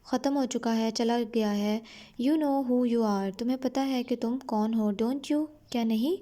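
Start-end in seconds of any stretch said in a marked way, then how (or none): 2.2-3.3 slow, careful reading of the English text; slow story reading. A narrator's reading. Teacher reading the English line slowly to her students. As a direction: read each word out slowly for the class.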